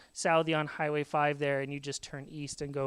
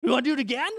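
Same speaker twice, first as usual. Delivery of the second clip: much higher, loud cheer; thrilled dad; 9 semitones higher, 8 dB louder than usual. Retold or imitated. Dad cheering kids after the spin, excited shout. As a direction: shout it like a thrilled big kid. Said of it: "he's like".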